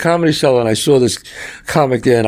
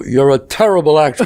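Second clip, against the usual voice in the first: shouted insult. Retold or imitated. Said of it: "I go".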